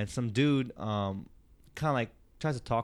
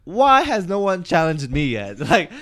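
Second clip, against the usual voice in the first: indignant outburst; 6 semitones higher, 9 dB louder than usual. Retold or imitated. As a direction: rant it big like the insulted hero nobody will fight. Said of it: "and I'm thinking".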